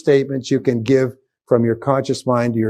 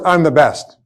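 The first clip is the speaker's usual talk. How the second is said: loud demo; 2 semitones higher, 4 dB louder than usual. Shown as a demonstration. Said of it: "say the words".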